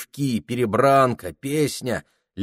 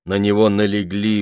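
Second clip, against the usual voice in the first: ordinary delivery, nothing marked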